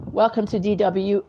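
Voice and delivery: lightly imitated German TV presenter accent; a hint of a DW presenter's accent. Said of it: "those girls with the accent".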